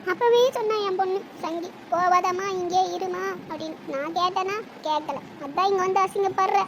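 quiet, broken, self-pitying lament; tearful complaint. Acted. Mother-in-law laments to son about being humiliated, tearfully. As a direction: feign hurt in halting phrases. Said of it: "ஏம்மா அழுகுறீங்க?".

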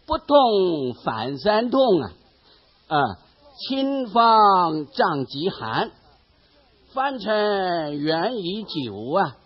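slow chanted poem recitation; recited poem. Shown as a demonstration. Preacher quotes an old poem praising the son, slow recitation. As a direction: intone each line slowly like classical verse. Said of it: "古人有作诗来赞叹他说".

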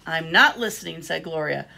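animated picture-book reading with lifted character lines; expressive storytime delivery; reading to children. A narrator's reading. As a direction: read a story aloud to little listeners.

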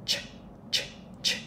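ch said with rounded lips pushed forward; ch as a hissed lip-rounded sound. Shown as a demonstration. Teacher drilling learners on the sound, lips pushed forward. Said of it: "đó là âm".

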